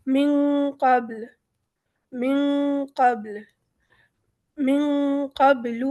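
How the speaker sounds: قبل ending with b and l both sounded; both sukuns. Shown as a demonstration. Teacher drills the double sukun. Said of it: "با کو ہم پڑھیں گے اور لام".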